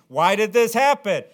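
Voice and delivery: high, loud mock cry of confusion; loud put-on voice of baffled Israelites; bewildered Israelites. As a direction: ham up the puzzled crowd. Israelites voiced asking after defeat.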